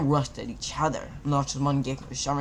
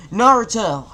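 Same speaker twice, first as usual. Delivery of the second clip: higher, loud shouted name; scream; 8 semitones higher, 12 dB louder than usual. A narrator's reading. Kakashi screaming up to Naruto, loud shout. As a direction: shout his name up to him. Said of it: "he screamed".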